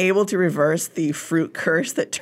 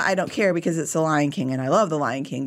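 excited outburst. Real, not acted. Enthusiastic declaration of love.

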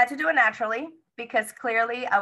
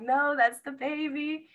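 higher, slower, matter-of-fact nurse; firm nurse; 7 semitones higher, slower than usual. Retold or imitated. Nurse telling the laboring mother it's the baby, firm and patient. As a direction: correct her patiently but firmly.

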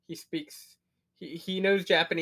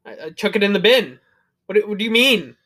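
louder, higher protest; mock exasperation; 5 semitones higher, 9 dB louder than usual. Speaker argues his word is real, loud exasperated retelling. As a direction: insist on it in baffled mock indignation.

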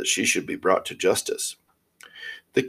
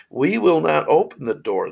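put-on high children's refusal; higher-voiced children calling through a door; kids crying out; 7 semitones higher, 3 dB louder than usual. A narrator's reading. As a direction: pitch it up as defiant little kids. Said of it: "they cried".

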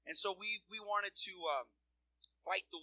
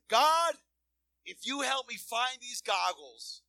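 desperate prayer; 7 semitones higher, 9 dB louder, slower than usual. Retold or imitated.

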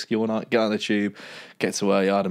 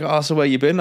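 put-on Scottish accent; 6 semitones higher, 3 dB louder than usual. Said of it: "trying to do a bad Scottish".

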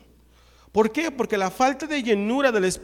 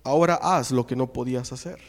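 deep, forceful televangelist command; low authoritative preacher voice; voice of authority; 6 semitones lower, 4 dB louder than usual. Retold or imitated. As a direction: command it like a TV faith healer. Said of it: "Así, con voz de autoridad".

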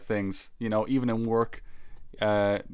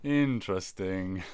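low, slow, doubtful "interesting"; skeptical drawl; 5 semitones lower, 4 dB quieter, slower than usual. Real, not acted. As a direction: say it slower and unconvinced. Repeated skeptical reaction.

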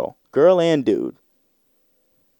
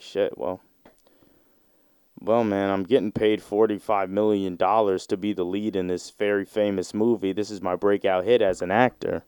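resigned grumble; 5 dB quieter than usual. Retold or imitated. Dude resigned, considers money.

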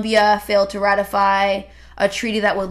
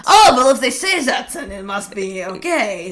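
sarcastic; 3 semitones higher, 5 dB louder than usual. Pretend. Sarcastic mock trust.

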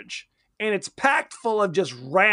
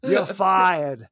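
badly faked Maine accent, dropped R; crazy Maine accent; 2 semitones lower, much slower than usual. Co-host imitating the foreman firing a worker, crazy Maine accent. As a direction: attempt a thick Maine accent. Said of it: "It's the craziest Maine accent".

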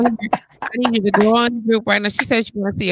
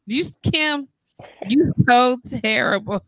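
whisper; 2 semitones higher than usual. Real, not acted. Laughing aside to a viewer.

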